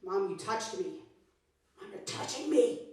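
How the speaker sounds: lightly voiced whining six-year-old, drawn out; mock a child complaining; whiny kid. A six-year-old whining at her mom about being touched, drawn-out whine. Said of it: "She was like".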